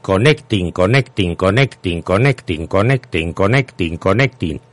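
repetitive machine chant; robot voice. Retold or imitated. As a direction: drone it like a looping computer message. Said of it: "un mensaje continuamente en mi servidor que dice".

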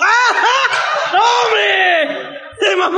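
high, laughing delight; amazed laughing shout. Retold or imitated. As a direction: crack up in amazement. Amazed reaction to Alexa.

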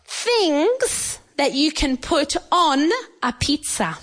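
each word spaced out slowly for learners; slow and clear. Shown as a demonstration. Teacher to young learners, slow and clear. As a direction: spell out "things that you can put on a pizza" slowly. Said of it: "Do you understand?".

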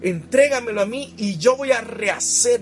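slow, loud, solemn promise; the Lord's voice. Retold or imitated. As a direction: speak as the Lord, slow and firm. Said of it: "Y el Señor dice". (la voz del Señor, solemne y lenta)

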